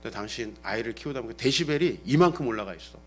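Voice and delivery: low, soft earnest appeal; serious request. Retold or imitated. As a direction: retell a husband's restrained plea for respect. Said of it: "한번 진지하게 몇 년 전에 얘기한 적이".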